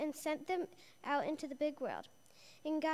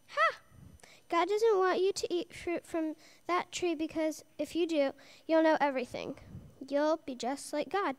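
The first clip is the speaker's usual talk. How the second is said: a hint of a sneaky serpent, sly and tempting; lightly voiced snake, coaxing Eve with a laugh; 3 dB louder than usual. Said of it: "the serpent hissed in his sly way".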